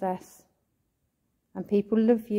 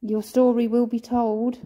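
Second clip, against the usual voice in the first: calling out; 2 semitones higher, 6 dB louder than usual. Real, not acted. Calling out to the spirit.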